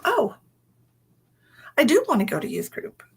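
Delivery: light mock-eager teen voice; eager daughter. Daughter eagerly answering mother.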